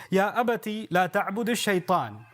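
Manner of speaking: measured Arabic recitation of scripture; chanted Quranic Arabic. Acted. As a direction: recite the verse with tajwid cadence. Quotes Quran verse in Arabic.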